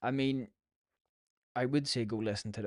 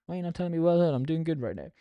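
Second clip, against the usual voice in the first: mock indignant; 6 semitones higher, 6 dB louder, faster than usual. Imagined indignant demand.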